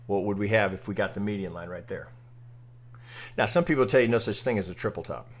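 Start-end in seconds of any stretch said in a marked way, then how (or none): none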